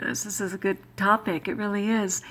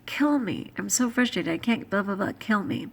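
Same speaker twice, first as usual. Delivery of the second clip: frustrated complaint. Retold or imitated. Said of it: "Or I'll say".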